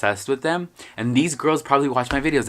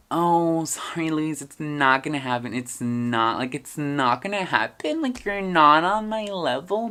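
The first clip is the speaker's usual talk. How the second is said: mock-sweet brush-off, higher and drawn out; condescending rejection, imitated; 5 semitones higher, slower than usual. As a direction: imitate girls loftily turning down an admirer. Girls' mock rejection, retold.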